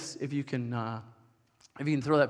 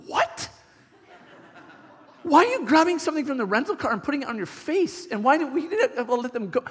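high-pitched baffled parent; retold disbelief; 8 semitones higher than usual. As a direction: retell it as an aghast dad, voice pitched up. Retold shock at rental car scarf.

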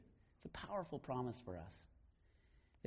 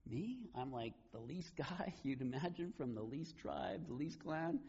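retold freaking out; 2 semitones higher, slower than usual. Gideon protests to God that he is least, mildly freaking out. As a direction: play a mildly flustered, reluctant recruit. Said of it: "like, freaking out".

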